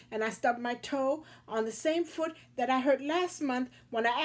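put-on whiny crying kid. Crying boy lists his woes.

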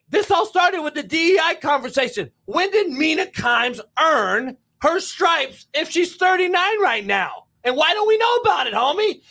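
impassioned argument, emphatically pressed; heated rant. Real, not acted. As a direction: demand an answer, pitch riding high. Heated rant challenging her credentials.

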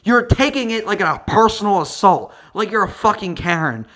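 ranting at the wife on screen; mock angry rant. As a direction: yell back at her scornfully. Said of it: "I'm like".

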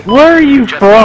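asks through a real laugh; can barely get the words out laughing. Real, not acted. Gamer cracking up at his teammate, laughing question.

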